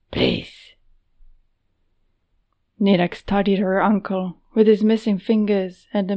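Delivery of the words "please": low, earnest plea; pleading. Acted. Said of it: "genuine in his pleading".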